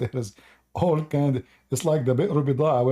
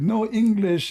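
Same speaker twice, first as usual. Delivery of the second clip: put-on old army buddy; 10 semitones higher, 4 dB louder, slower than usual. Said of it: "he said".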